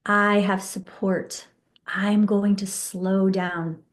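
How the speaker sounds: slow, calm affirming voice; slow affirmations. Shown as a demonstration. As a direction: say each affirmation slowly and gently. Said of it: "what you want instead".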